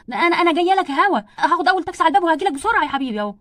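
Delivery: loud, hurried motherly reassurance; flustered urgency. Acted. Mother promises son she's coming by taxi, flustered and loud. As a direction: blurt it out loudly, rushing to help.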